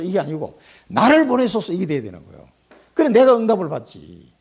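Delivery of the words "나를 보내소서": fervent prayer. Acted. Right prayer after wrong one.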